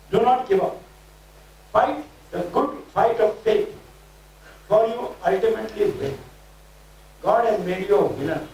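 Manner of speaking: rhythmic declaring, each phrase pushed out; prophetic preaching. Acted. Preacher declaring prophecy over the congregation, fervent. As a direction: proclaim it like a prophet over the crowd.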